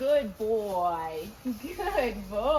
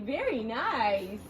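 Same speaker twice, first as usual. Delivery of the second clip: drawn-out praise; 5 dB louder, much slower than usual. Shown as a demonstration. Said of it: "is when you go".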